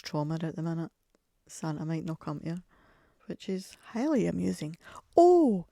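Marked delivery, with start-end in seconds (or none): 5.2-5.7 very high, loud burst of recall; as if it just popped into your head; sudden remembering. Real, not acted. Suddenly remembering news for the listeners, high surprised oh.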